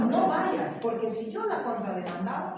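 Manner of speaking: loud, amused retelling; loud amused quote. Retold or imitated. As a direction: push the lawyer's warning out loudly. Quotes lawyer, still amused.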